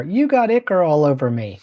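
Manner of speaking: playful in-character yelling; mock yell. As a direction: yell it in character, half in earnest. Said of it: "I yells at Score".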